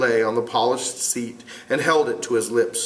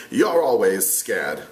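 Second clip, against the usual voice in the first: contemptuous; 2 semitones lower, slower than usual. Acted. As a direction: dismiss him with contempt. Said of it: "broke in contemptuously".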